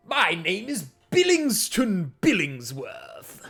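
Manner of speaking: high, loud, slow hearty knight; armored warrior's voice. Acted. Warrior praising the party after battle, high and loud. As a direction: greet them grandly as a gleaming warrior. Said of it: "And he says".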